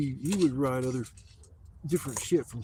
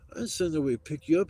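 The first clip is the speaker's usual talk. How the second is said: higher-pitched, quick imitation of a baffled friend; retold alarmed denial; 5 semitones higher, 4 dB louder, faster than usual. Buddy on the phone denying he sent anyone, imitated alarm. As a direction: rush it out like an imitated worried buddy.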